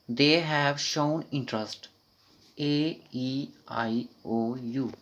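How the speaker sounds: walk the class through it slowly; slow demonstration. Shown as a demonstration. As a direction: stretch every word slowly. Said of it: "slow read and vowel chant".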